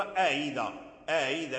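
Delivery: "أإذا" with the second hamza gliding toward i, "a-idha"; second hamza softened. Shown as a demonstration. Teacher showing Nafi's reading of "أإذا", second hamza softened. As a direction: ease from a into i in "أإذا" without a hard stop. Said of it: "الهمزة الثانية دائمًا".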